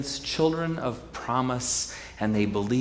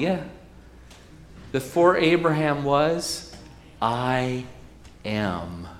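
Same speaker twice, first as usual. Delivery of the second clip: calm; 3 semitones higher, slower than usual. Acted. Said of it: "Jesus says calmly".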